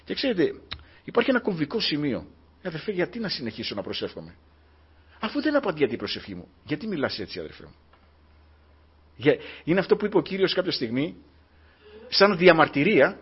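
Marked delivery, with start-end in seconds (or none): 2.6-7.7 a soft, weary imitation of a brother's complaint; discouraged complaint. Preacher quoting a brother who gave up praying, soft and weary. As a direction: voice the tired believer, quieter and dropping.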